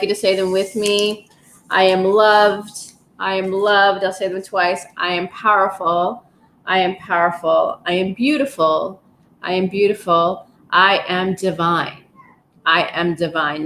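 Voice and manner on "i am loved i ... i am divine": affirmations. Shown as a demonstration. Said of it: "I'll just say a few affirmations".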